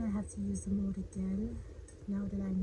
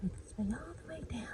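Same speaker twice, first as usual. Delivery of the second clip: whispering; 2 semitones higher, 8 dB quieter, faster than usual. Real, not acted. Watching soap run down.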